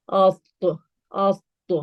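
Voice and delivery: heavy bouncing T in افت; افت as a thick "awt-to"; heavy qalqala. Shown as a demonstration. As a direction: lift the tongue for a heavy AT and bounce it. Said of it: "تو پہ قلقلہ بھی ہوتا ہے".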